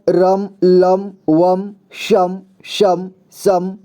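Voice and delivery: drawn-out syllables with long gaps between them; teacher slowly sounding out each syllable for pupils; very slow syllable drill. Shown as a demonstration. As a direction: read the chart one syllable at a time. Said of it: "इसे तीन तरह से उच्चारण किया जाता है".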